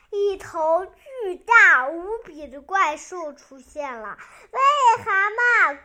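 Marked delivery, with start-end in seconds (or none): 4.5-5.8 loud storybook monster call; monster's roar. Acted. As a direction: call out loudly as a roaring monster. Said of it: "怪兽咆哮道". (模仿怪兽大声咆哮)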